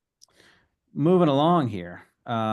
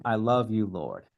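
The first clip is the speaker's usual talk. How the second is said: tender devotion. Shown as a demonstration. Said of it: "it's almost like saying".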